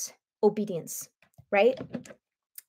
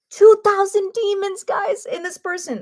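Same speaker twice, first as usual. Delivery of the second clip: louder, higher astonishment; astonished; 9 semitones higher, 4 dB louder than usual. Real, not acted. Preacher stresses two thousand demons, astonished and loud. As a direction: marvel at the number. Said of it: "That's crazy".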